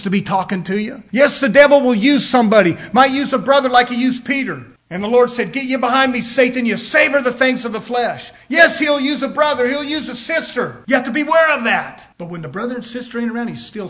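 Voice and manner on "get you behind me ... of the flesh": loud commanding rebuke; stern rebuke. Retold or imitated. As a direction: cast Satan out with force. The Lord rebuking Peter.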